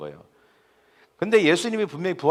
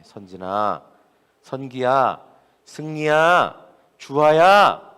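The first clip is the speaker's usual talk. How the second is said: drawn-out calls, building from usual level to loud; calling out names; 5 dB louder, much slower than usual. Acted. Preacher as the Lord calling members by name, building calls. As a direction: call each name a little louder than the last. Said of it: "여러분의 이름을 부르고 계시는".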